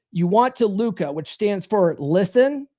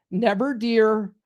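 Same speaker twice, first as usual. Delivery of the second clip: slow, deliberate mantra; drilled catchphrase, unhurried; repeat-after-me slogan; slower than usual. Shown as a demonstration. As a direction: space it out for the group to repeat. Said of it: "Say it with me now".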